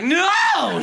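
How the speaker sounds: hammed-up desperate yell; mock scream. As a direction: shout at the waves. Man screaming at ocean.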